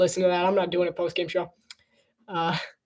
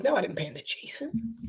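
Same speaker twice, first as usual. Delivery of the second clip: softer, whispered no; whispered denial; 3 semitones higher, 10 dB quieter than usual. Retold or imitated. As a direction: whisper the denial under your breath. Camera guy answering quietly.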